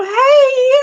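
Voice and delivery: the cry breaks through; breaking into tears. Real, not acted. Remembering her parents' help, voice breaking. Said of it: "I'm gonna cry".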